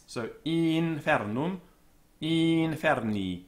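"infernum", "inferni" with a long, tense i before the nf; long vowel before nf. Shown as a demonstration. Teacher models the long i of "infernum" and "inferni", slowly. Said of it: "a vowel before N F is ... long".

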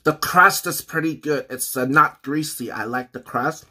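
chewing while talking; talking around a bite of food; mouth partly full. Real, not acted. Seen 3: Bite at -9; mouth still working food while talking, slice held.

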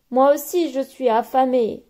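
anteater's mock hungry moan; moaning hungrily. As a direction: moan that you're starving. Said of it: "gémit Omar".

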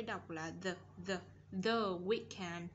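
"the" begun with the tongue pushed out for TH; TH with tongue forward. Shown as a demonstration. Teacher drills TH for pupils, tongue-forward "the". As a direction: repeat "the" carefully, tongue forward on TH. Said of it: "T H chúng ta đẩy lưỡi".

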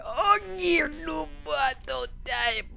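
high, soft put-on voice; hammed-up timid begging; mock pleading. Mock pleading with game enemy.

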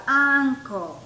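UNCLE opening on a clear ah; vocal inicial. Shown as a demonstration. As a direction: lean on the first vowel of UNCLE. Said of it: "es una vocal". (uncle resaltando la ah inicial)

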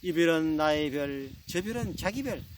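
lilting, lovey-dovey bride gazing at stars; cutesy Seoul bride. Acted. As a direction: coo playfully to your husband, voice rising. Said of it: "서울 신부가". (애교스럽게 속삭이듯 말하는 서울 신부)

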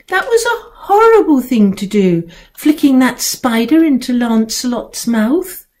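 high, crying reproach; tearful scolding. Acted. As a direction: scold through tears. Girl scolding cat, upset.

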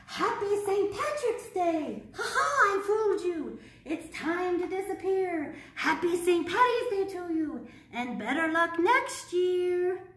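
a mischievous little fairy crowing; gleeful leprechaun. Acted. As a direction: gloat as the tricky leprechaun. Leprechaun taunting the children.

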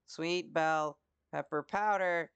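'sweet bell pepper powder' read very slowly, each word spaced out; slow careful reading. Shown as a demonstration. Reading a recipe step aloud, slow and careful. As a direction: spell out the ingredient slowly, word by word. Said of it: "Sweet, s".

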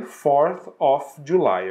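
slow, stressed fourth of July; slow model date. Shown as a demonstration. Teacher modeling the common form for the class. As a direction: lean on fourth, say it slowly. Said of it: "fourth July".

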